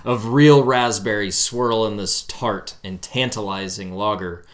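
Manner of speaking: slow, smooth label read; beautiful voice read. Pretend. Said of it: "read the back of it with your beautiful voice".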